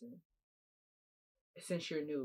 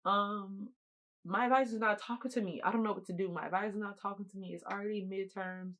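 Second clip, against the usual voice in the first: higher-pitched, mildly upset retelling; retold holding back tears; 4 semitones higher than usual. Student retelling her plea to financial aid, mildly tearful. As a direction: act out keeping composure, voice raised in pitch. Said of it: "I'm trying not to cry".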